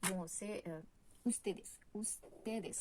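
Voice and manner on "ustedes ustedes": "ustedes" slowly, each S clearly sounded. Shown as a demonstration. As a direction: draw out "ustedes" and finish on a clear S. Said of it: "on prononce la S".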